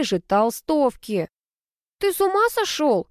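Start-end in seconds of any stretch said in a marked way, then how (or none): 2.0-3.1 much higher, indignant outburst; сердито. A narrator's reading. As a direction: snap at him in annoyance. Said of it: "рассердилась я". (рассерженно и высоко)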